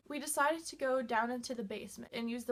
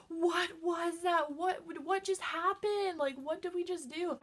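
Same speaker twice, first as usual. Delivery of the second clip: shaken and breathless; 5 semitones higher than usual. Retold or imitated. Breathing all heavy.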